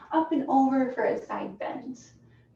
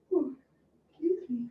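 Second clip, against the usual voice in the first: yawning; 4 semitones higher, 4 dB quieter than usual. Real, not acted. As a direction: yawn through the words. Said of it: "yawning over here".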